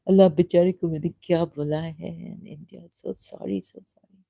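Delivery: half-voiced remorse, fading to a whisper at the end; retold tearful apology. Alone in the kitchen, apologising to God, remorseful and fading to a whisper. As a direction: replay the guilty kitchen plea, the final words breathed out. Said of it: "I cried and cried and cried in the kitchen".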